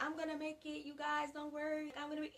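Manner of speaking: softly upbeat imitation; reassuring positivity. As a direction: imitate someone gently telling friends not to worry. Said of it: "being positive, being like".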